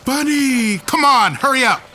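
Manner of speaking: high, loud call to hurry; eager shout. Acted. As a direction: urge them on, thrilled. Spotting a clearing, urging friends.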